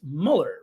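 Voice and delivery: Mueller said MULL-er, short vowel; guessed pronunciation. Shown as a demonstration. Host guessing at the name, Mueller said as MULL-er. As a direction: guess "Mueller" without a y glide. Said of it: "I think it's".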